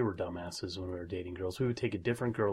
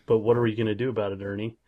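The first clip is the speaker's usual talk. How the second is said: Bert quote; 6 dB louder than usual. Pretend. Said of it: "And then Bert says".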